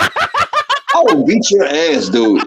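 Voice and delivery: slow, laughing mock threat; drawn-out joking threat. Real, not acted. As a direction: threaten him through a laugh.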